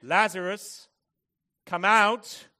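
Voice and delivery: high, commanding shout; loud voice. Acted. Jesus calls the dead man from the tomb, loud command. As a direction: call it out at full volume, words set apart. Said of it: "then with a loud voice".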